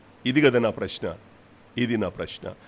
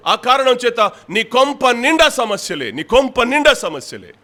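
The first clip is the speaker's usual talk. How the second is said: preaching at full force, higher and louder; harsh rebuke; 8 semitones higher, 4 dB louder than usual. Real, not acted. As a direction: scold the congregation hard from the pulpit. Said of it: "కొంచెం కఠినంగా, కొంచెం బాధతో". (కఠినంగా గద్దించే బోధ)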